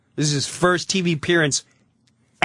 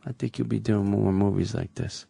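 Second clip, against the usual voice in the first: ominous prediction; 5 semitones lower, 5 dB quieter than usual. Retold or imitated. Bruno Kirby's ominous prediction retold.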